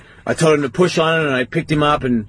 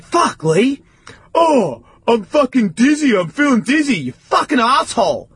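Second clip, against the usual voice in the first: exasperated outburst; 10 semitones higher, slower than usual. Retold or imitated. Big brother yelling at his fine little brother, exasperated. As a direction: vent at him, half dizzy. Relief turning to anger.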